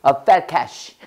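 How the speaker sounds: very slow, each word spaced; slow model sentence. Shown as a demonstration. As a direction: drill it slowly for the class. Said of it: "해봐".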